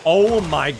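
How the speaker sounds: high, loud victory yells; excited shouting. Real, not acted. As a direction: shout with joy at the win. Big win in the game.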